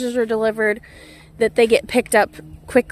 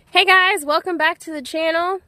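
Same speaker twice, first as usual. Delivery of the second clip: excited greeting; 6 semitones higher than usual. Real, not acted. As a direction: call out a cheery welcome. Greeting to viewers.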